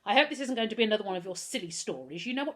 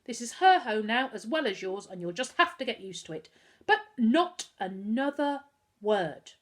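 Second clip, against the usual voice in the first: angry scolding; 3 semitones higher, 4 dB louder than usual. Acted. Mother banging the table and scolding her son, loud and firm. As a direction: lay down the law.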